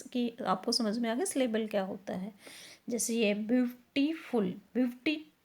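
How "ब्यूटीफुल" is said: "ब्यूटीफुल" slowly broken into syllables; teacher splitting "ब्यूटीफुल" for students; syllable breakdown. Shown as a demonstration. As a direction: sound out "ब्यूटीफुल" part by part. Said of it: "फुल लगाने से दो syllable word हो गए".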